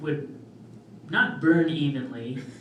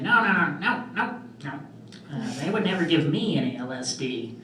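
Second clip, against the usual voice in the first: impression of dad; 3 semitones higher than usual. Comic imitating his father's denial, lightly voiced. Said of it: "my impression of a black comic doing an impression of a white person".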